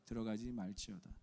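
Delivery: slow, solemn reading aloud; scripture reading. Acted. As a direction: read the verse together with the church. (회중과 함께 성경을 천천히 봉독)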